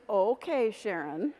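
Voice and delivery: velvet hammer. Retold or imitated. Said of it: "she's the one with the velvet hammer".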